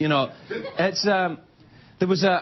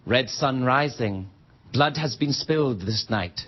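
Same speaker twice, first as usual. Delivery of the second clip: slow, lower, grave epic delivery; mock solemn movie line; 5 semitones lower, slower than usual. Mock-solemn quoting the movie line to the audience. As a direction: intone it like a brooding elf hero. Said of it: "Orlando Bloom says in that movie".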